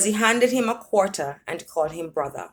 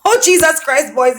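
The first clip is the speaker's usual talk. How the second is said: high, loud laughing cry; laughing scream; screaming with laughter; 8 semitones higher, 6 dB louder than usual. Acted. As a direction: shriek it through laughter. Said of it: "he screamed, still laughing".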